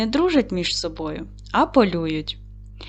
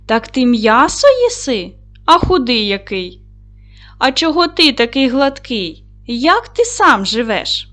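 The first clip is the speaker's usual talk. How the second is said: louder, wondering dog voice; surprised dog; 3 semitones higher, 5 dB louder than usual. Acted. Teacher reading the tale, dog marvels at the wolf, louder.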